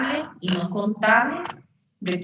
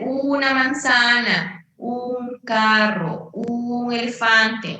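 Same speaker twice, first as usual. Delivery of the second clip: "una", "un", "un" drawn out slowly; slow examples leaning on "una" and "un"; emphasised articles; 3 semitones higher, much slower than usual. Shown as a demonstration. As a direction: stretch each "una" and "un" before its noun. Teacher stresses the article meaning one.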